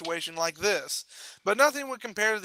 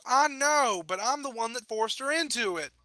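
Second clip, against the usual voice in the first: raised, distressed interruption; guilty protest; 5 semitones higher than usual. Acted. Guilty pony cuts in on reassurance.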